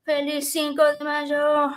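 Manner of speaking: Spanish greeting said with a plain American accent; Americanized Spanish pronunciation of "Feliz Cinco de Mayo". Shown as a demonstration. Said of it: "that was my very Americanized accent".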